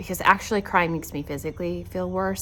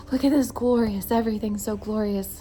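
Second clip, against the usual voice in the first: mock gushing; 3 semitones higher, 3 dB louder than usual. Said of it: "I'm just like".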